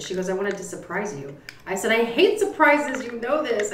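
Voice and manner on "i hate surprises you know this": mock exasperated protest. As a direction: protest to mom, lightly exasperated. Retold protest to mother.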